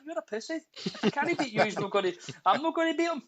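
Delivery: high, whining scaredy-cat; whiny coward voice. Retold or imitated. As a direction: pitch it way up like a frightened kid brother. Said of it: "I'd be like".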